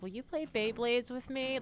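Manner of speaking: put-on high, slow squeaky girl voice; squeaky little voice. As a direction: ask it small and squeaky. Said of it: "her squeaky little voice would be like".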